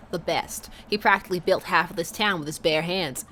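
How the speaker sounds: hammy cartoon Southern accent; proud dad, lightly put-on Southern accent; fake Southern accent. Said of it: "my atrocious fake X-Men nineties cartoon level accent".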